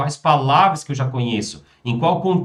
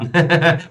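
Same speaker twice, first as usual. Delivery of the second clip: chuckle; 3 semitones higher, 4 dB louder than usual. Real, not acted. Teacher chuckles while advising students.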